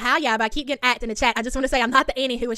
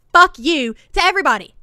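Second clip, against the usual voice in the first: mock yell; 4 semitones higher, 9 dB louder than usual. Mocking a rude sign-off.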